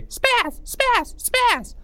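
very high mocking chant; high-pitched voice. Boys sneaking up on Greg, very high taunting. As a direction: squeal each word at him. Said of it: "in a high-pitched voice".

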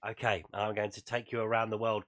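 hoarse, croaky voice; speaking through a croaky throat. Real, not acted. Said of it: "croaky voice and all".

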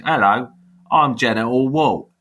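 a light Michael Caine geezer voice; a hint of a proud bloke down the pub; real geezer. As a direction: announce yourself like a cocky London geezer. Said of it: "I had to do it like a real geezer".

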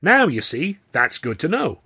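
a hearty jab at the star; chummy showman. A narrator's reading. Grauman voiced.

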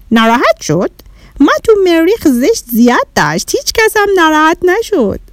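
a hint of a curious little Martian; Martian child. Bahram the Martian telling Shadi about Mars, lightly voiced.

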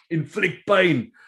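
slow, punched coach's mantra; quoting the coach. Retold or imitated. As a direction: drag it out like a hard-nosed coach. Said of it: "Bucky's used to say".

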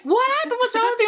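high-pitched imitation of a worried mother; mock-panicked parent questioning; alarmed mom. Mom to her bleeding, crying kid, alarmed.

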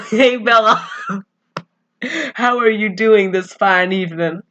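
folksy, hammed-up Southern accent. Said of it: "have a southern accent".

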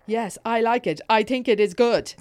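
awkward, mistimed over-emphatic reply; badly modulated volume. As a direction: blurt a stiff answer at slightly the wrong volume. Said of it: "badly modulated my volume".

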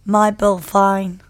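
slow attempt at an Australian accent. Shown as a demonstration. Podcaster trying the Australian accent hack slowly. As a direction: try a mock Australian twang, each word drawn out. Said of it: "So this accent hack".

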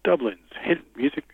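measured radio ident with spaced phrases; best radio voice. Pretend. Caller auditions as station voiceover for hosts, best radio voice. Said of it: "In your best radio voice".

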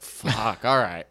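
a tripping comic answering the host; imitating himself on acid. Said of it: "on acid".

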